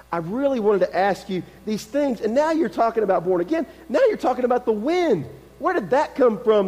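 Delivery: acted exasperation, pitch climbing as it goes; rising, mildly frustrated complaint. Nick questioning Jesus about being born again, mildly frustrated. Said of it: "He's getting frustrated".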